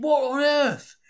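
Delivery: high, loud startled cry; astonished exclamation. Retold or imitated. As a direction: blurt it out in disbelief. Shock at the fan's family escort.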